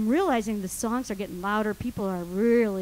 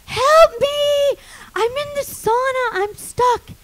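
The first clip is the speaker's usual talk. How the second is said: high, loud cry for rescue; frantic calling; 12 semitones higher, 7 dB louder, slower than usual. Retold or imitated. Trapped woman calling to someone on the stairs, frantic. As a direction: call up high to whoever is coming. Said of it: "And I'm like".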